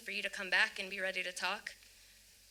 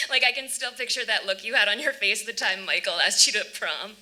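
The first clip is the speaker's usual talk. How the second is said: laughing; 6 dB louder than usual. Acted. Laughing while recalling prom.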